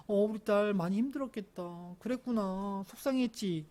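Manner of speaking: gently acted sympathy for a daughter; lightly cooed, drawn-out empathy; soothing father. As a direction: comfort her tenderly. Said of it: "라고 해줬던 게".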